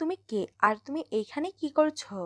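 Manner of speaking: plain reading voice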